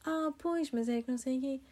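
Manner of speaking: high, babyish imitation of the woman; childish speech. Imitating the woman's childish way of talking, high and babyish. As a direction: talk like a small child. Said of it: "discurso bem infantil".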